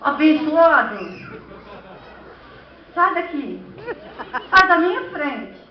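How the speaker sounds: firm, punchy dismissal, mildly angry; exasperated parent. Acted. Parent sending a child away before losing calm, firm exasperation. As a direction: order the child away, barely holding back.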